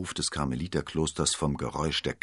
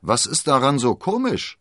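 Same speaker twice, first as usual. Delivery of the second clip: suspicious musketeer; 8 semitones higher, 7 dB louder than usual. Acted. Suspicious musketeer questions laughter.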